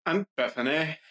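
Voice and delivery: "Bethany" said with F in place of TH; TH not pronounced. Acted. Teen introduces herself to listeners, saying "Bethany" as "Beffany". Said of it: "I don't pronounce it".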